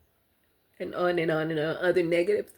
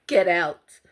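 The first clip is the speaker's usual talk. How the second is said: louder, blunt urging; firm command; 6 dB louder than usual. Real, not acted. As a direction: tell them to leave, firmly. Urging victims to leave.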